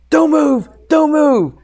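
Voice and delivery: high, urgent retold shout; panicked yelling. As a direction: imitate a freaked-out instructor yelling. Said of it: "that guy starts yelling".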